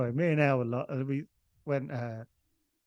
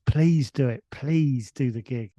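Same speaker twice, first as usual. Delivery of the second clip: imitated plea, stretched "please"; begging; 4 dB louder, slower than usual. Promoter begging reluctant comics to do his gig, pleading. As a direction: plead slowly, leaning on each please. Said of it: "starts begging us".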